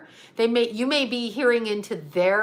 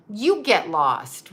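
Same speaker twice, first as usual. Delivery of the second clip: firm dismissal; much slower than usual. Shown as a demonstration. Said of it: "So you say to them".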